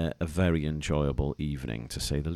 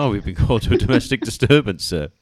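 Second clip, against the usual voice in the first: laughing officer; 4 semitones higher, 6 dB louder than usual. Retold or imitated.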